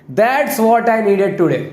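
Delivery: very slow, drawn-out sarcasm; sarcastic reply. Shown as a demonstration. Teacher demonstrating a sarcastic reply to the class, very slow and drawn out. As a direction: stretch every word out with mock gratitude. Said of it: "तो आप sarcastically कैसा जवाब दोगे?".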